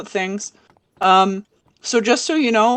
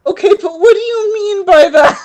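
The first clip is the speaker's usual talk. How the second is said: high, louder bewildered question; acted puzzlement, pitched up; mild confusion; 10 semitones higher, 6 dB louder than usual. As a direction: ask it in baffled protest. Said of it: "mild confusion, and she's like".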